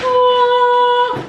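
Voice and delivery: sudden high yelp of surprise; a loud startled oh; surprised gasp. Real, not acted. Too much poured in.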